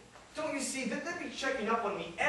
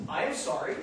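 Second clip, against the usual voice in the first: stylish apology, stress on am; with a little style. Shown as a demonstration. Murray shows Sandy his stylish apology. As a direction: say "I am sorry" with am leaned on, a touch of flair. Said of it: "but said with a little bit of style".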